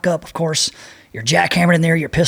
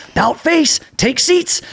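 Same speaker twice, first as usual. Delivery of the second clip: drill command; 11 semitones higher, slower than usual. Retold or imitated. Instructors ordering the class.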